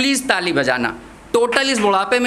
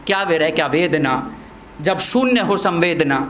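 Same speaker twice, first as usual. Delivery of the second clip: rhymed verse in a steady beat; poem recitation; 3 semitones lower than usual. Acted. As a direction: recite in even, separated lines.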